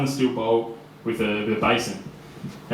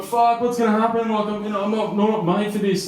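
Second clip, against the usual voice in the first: high-pitched imitation of a panicking lad; mock hysterical panic; 10 semitones higher than usual. Imitating a frightened eighteen-year-old new in the cell, mock panic. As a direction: act out a freak-out, pitched way up. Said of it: "he's in hysterics, like, he's freaking out".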